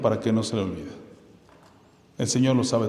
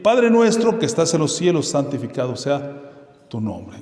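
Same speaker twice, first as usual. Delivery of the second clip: solemn recitation. Acted. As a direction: call out to the Father in prayer. Recites the Lord's Prayer again.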